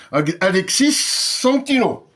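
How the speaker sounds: "Alexis Santino" said slowly, with the S of Alexis run onto Santino; slow, deliberate "Alexis Santino" with the linking S sounded; "Santino" spoken slowly and clearly, the S carried over from "Alexis"; careful pronunciation. Shown as a demonstration. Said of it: "il faut prononcer les S".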